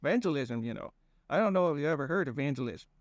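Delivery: put-on high, folksy rambling accent; goofy drawling accent. Fang explaining himself to Conrad in a goofy accent. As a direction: ramble on in a dopey regional accent. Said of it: "Ian was doing an accent".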